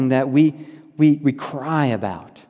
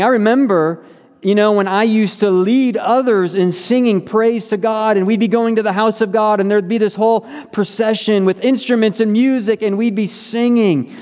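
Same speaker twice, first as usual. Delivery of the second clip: higher-pitched, lightly animated recollection; happy reminiscing; 6 semitones higher than usual. Acted. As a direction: recall joyful times with a lift in pitch. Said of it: "he's remembering happy times".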